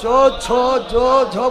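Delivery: चो छो जो झो with tongue touching palate; palatal sounds. Shown as a demonstration. Teacher showing tongue on palate, palatal चो छो जो झो. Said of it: "जीभ जाके टच करेगा तालु को".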